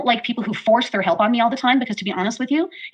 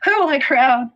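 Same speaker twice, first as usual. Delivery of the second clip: grand mock queen; 4 semitones higher, 4 dB louder, slower than usual. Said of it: "scroll and be like".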